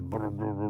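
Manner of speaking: soft rolled brr of an idling truck; imitated engine rumble. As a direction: purr like a running truck motor.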